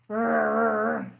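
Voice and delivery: bear growl. Acted. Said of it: "Grrr rumbled from the bear's belly".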